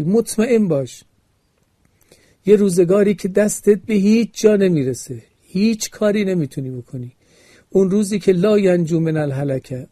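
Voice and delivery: stirring pulpit exhortation; sermon preaching. Acted. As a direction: preach it to the congregation with growing force.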